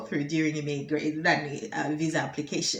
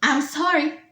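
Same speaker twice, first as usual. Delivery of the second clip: higher, firm mock refusal; ancient minister; 6 semitones higher than usual. Minister refuses the reporter's question, firm acted elder voice. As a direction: refuse like an old official. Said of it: "says the dinosaur".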